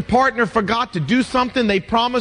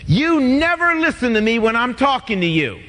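couple bickering; 2 semitones higher than usual. Retold or imitated. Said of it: "stay away from words like never".

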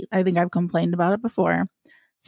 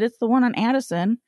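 ordinary talk, nothing marked

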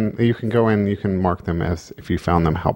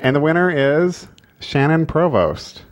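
hyped giveaway announcement; 8 semitones higher than usual. Real, not acted. Announcing contest winner.

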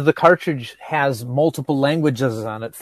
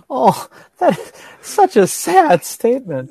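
laughing mock pity; 12 semitones higher, 6 dB louder, slower than usual. Real, not acted. Laughing at friend's getting-old remark.

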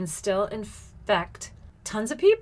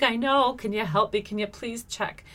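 retold pleading; 4 semitones higher than usual. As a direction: beg a friend for help, easing off at the end. Retold plea to nurse friend.

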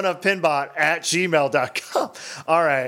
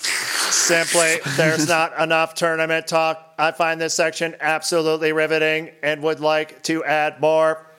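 robot voice. Acted. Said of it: "to be read in an eighties robot voice".

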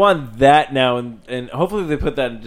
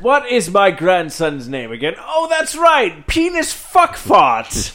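put-on old man voice; 5 semitones higher, 4 dB louder, slower than usual. Grandpa forgetting grandson's name.

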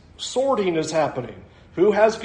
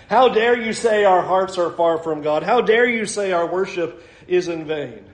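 offended Pharisees; 2 semitones lower than usual. Retold or imitated. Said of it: "We're offended".

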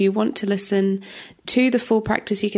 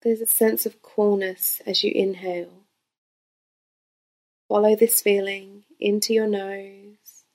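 guided meditation. Real, not acted. Yoga teacher leading listeners through breath awareness, calm guided meditation. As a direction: gently guide them into stillness, phrase by phrase.

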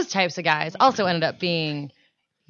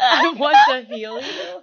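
laughing; 3 semitones higher than usual. Pretend. Echoing the joke, laughing.

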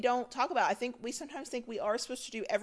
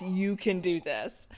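encouraging quote; 3 semitones lower, slower than usual. Retold or imitated. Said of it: "let her tell you".

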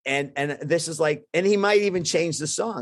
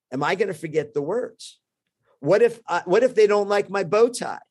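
nervous; 5 semitones higher than usual. Retold or imitated. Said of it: "I'm freaking out a little bit".

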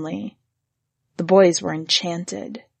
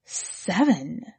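soft stunned question; hushed disbelief; 6 dB quieter than usual. Acted. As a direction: drop the voice in quiet awe. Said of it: "looked at her and whispered".

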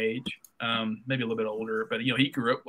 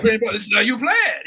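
high, louder insistence; raised-voice mock protest; retold Frenchman without the accent; 9 semitones higher, 6 dB louder than usual. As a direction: insist loudly as the indignant player. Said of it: "I can't do the French accent".

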